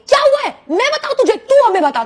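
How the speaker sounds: mother's high, loud outburst; a high, shouted scolding from an imitated mom; angry mother. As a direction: yell it back at the daughter in a rage. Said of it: "तो मेरी mummy कहती है".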